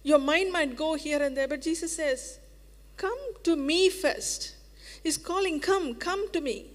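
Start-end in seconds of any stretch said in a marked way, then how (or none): 2.9-6.7 loving call. Acted. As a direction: draw them near with love. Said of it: "How lovingly".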